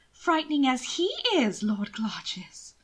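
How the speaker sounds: a frightened lady's whisper; small whispered voice. Acted. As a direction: whisper it nervously, barely voiced. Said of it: "her voice small".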